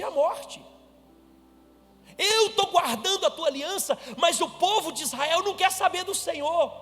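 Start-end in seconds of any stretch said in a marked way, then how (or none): 2.2-6.7 high, loud, rising outcry of protest; preached lament building from pleading to outrage; indignant Elijah. Acted. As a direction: pour out the prophet's bitter complaint to God. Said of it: "Ele tá revoltado".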